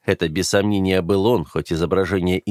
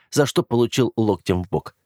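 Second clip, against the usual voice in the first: usual speaking voice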